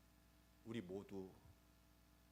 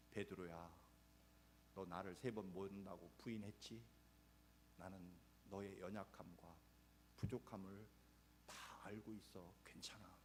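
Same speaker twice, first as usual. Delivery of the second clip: soft, low, gentle reassurance; hushed, kind voice of Jesus; tender Jesus; 3 semitones lower, 7 dB quieter than usual. Acted. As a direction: comfort him like a forgiving master. Jesus gently consoling Peter.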